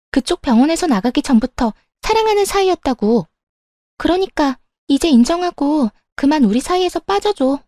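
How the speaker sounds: lightly voiced, self-assured other woman; brazen mistress. Mistress telling wife to step aside, brazen. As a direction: claim him with a lightly put-on girlfriend voice.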